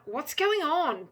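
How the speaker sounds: loud, high, drawn-out cry; wanting to scream. A narrator's reading. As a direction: cry it out slowly in bewilderment. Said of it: "You want to scream out".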